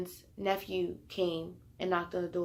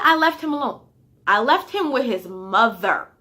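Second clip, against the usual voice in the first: shouting; 2 semitones higher, 7 dB louder than usual. Retold or imitated. Retold argument with mom.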